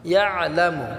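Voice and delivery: ইয়ালামু with the আইন pressed in the throat; throat-pressed ain. Shown as a demonstration. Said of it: "আইনটাকে আমরা গলায় চাপ দিয়ে সাকিন করব". (ইয়ালামু-র আইন গলা চেপে সাকিন)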